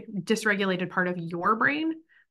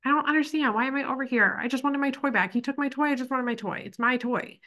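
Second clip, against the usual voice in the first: lightly voiced little kid, higher and whiny; a hint of a sulky child who lost a toy; imitating a hurt child; 5 semitones higher than usual. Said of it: "or, like".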